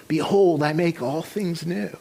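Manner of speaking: a hint of a voice from above, hushed ending; God's voice. God repeats His word to the woman, lightly voiced. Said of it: "she hears over and over again".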